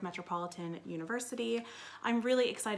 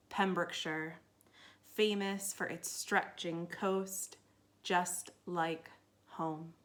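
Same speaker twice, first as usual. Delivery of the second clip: measured poetry reading with deliberate pauses; poem reading; slower than usual. Acted. Poet reads her last American road trip to festival listeners, measured recital. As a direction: read it line by line, weighing each phrase.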